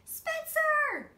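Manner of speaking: loud, high call up the stairs; yelled name. A narrator's reading. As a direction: yell his name in exasperation. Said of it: "she yelled".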